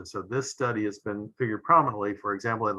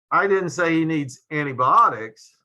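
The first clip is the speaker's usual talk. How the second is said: didn't punched higher and louder; emphatic didn't; 5 semitones higher, 6 dB louder than usual. Shown as a demonstration. Lecturer ending the inflection demo, louder emphatic didn't. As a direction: hit didn't hard, then fall. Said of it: "notice how the meaning changes depending upon the inflection".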